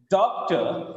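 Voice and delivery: "Doctor" stressed on the first syllable; strong DOC, weak tor in "Doctor"; rhythmic word stress. Shown as a demonstration. Teacher showing English rhythm to class, stressed first syllable. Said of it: "here comes the rhythm".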